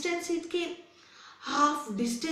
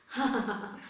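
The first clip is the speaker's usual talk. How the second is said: acted laugh; 3 dB quieter than usual. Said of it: "this rabbit said".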